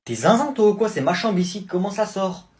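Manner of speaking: crie sur le petit cousin, plus aigu et plus fort; vire-le de la chambre en criant; engueulade. Acted. Dispute avec le cousin. (énervé contre le petit cousin qui l'embête)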